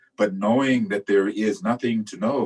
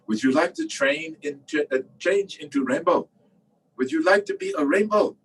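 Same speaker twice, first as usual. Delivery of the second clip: raised pitch, lively teacher's invitation; Lama Kazi; 6 semitones higher than usual. Retold or imitated. Lama asking students at departure about becoming a rainbow, voiced playfully. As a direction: pose it as a playful, high-pitched question. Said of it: "I hear Lama Kazi say".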